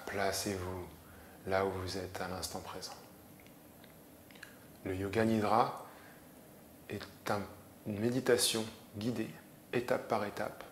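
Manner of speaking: calm yoga nidra instruction; measured relaxation voice with long pauses; guided meditation. Acted. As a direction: guide them gently into rest, pausing often.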